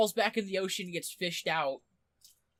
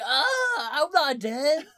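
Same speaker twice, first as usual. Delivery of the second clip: higher and louder, laughing through it; surprised laughing exclaim; 5 semitones higher, 5 dB louder, much slower than usual. Retold or imitated. Joseph at his own funeral, laughing exclaim. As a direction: burst out amazed, half laughing.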